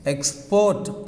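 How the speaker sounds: "export" with the second syllable stressed; stress on last syllable. Shown as a demonstration. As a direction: put the weight on the end of "export". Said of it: "on last syllable".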